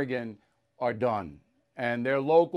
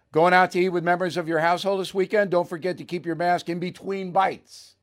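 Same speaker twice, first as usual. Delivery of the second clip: fast, louder mocking quote; mocking read; 2 semitones higher, 4 dB louder than usual. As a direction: read it out in ridicule. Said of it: "Quote, this is from Newsom".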